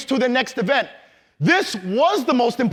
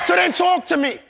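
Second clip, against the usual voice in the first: urging call; 5 semitones higher than usual. Real, not acted. Urging a quiet audience.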